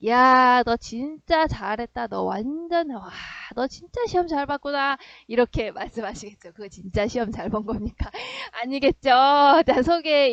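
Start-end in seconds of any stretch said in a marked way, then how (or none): 0.1-5.0 ironic praise. Acted. Angry parent to child after a ruined exam, ironic praise. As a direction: praise it while meaning the opposite. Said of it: "화가 엄청 많이 나셨으면".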